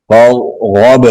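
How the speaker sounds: "غب" with an echoing bounce on the b; qalqalah on ba. Shown as a demonstration. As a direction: release the b of "غب" with a small rebound. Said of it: "یہاں پہ قلقلہ کریں گے".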